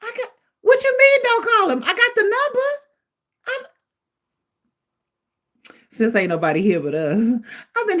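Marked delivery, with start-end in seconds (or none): 0.0-3.7 high, laughing indignant protest. Real, not acted. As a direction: laugh through the objection. Laughing protest about calling him.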